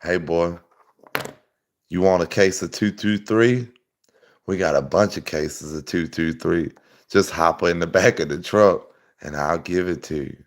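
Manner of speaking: imitating a good ol' boy in a pickup; redneck in a truck. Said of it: "they over there pull up beside you while you fishing like".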